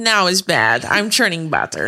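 light mock Russian accent; imitated Russian accent. Showing a friend how she says it, imitated Russian accent. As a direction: quote the movie lady, lightly Russian-accented. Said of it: "That's how she says it".

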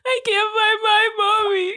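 put-on high, slow little-kid voice; lost toddler pleading; baby voice. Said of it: "do a baby voice".

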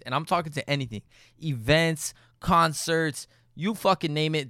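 casual, direct sponsor read; podcast ad read. Real, not acted. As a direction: sell it to loyal listeners in an easy host read. Podcast host reads sponsor ad.

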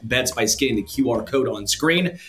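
brisk sponsor read, even and upbeat; steady host-read commercial. Acted. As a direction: sell the betting promo like a podcast ad. Reads sponsor ad.

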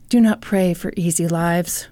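low, measured recital; lightly faked motivational gravity; mock inspirational quote. Quoting his inspirational posts, mock solemn.

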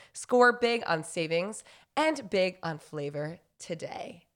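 upbeat scripted ad read. Acted. Podcast host reads a Daily Harvest sponsor spot, ad read voice. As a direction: sell it like a polished sponsor spot.

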